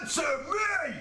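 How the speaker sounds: high shouted chorus line; shouted hook. Shown as a demonstration. Bandmate trying out the chorus, shouted.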